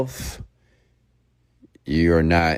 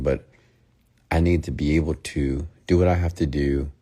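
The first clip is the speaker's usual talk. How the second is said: calm breakup speech demo. Shown as a demonstration. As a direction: talk her down gently, unhurried.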